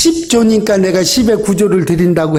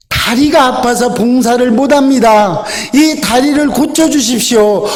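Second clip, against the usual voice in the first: higher-pitched imitated plea to God; mock-up of a raised, beseeching prayer; pleading prayer; 4 semitones higher than usual. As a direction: act out an earnest request for healing. Acted prayer pleading for healing.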